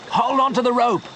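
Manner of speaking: high, desperate call; urgent cry to Joe slipping away; shouted order. A narrator's reading. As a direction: yell it over the rushing river. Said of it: "Leon shouted".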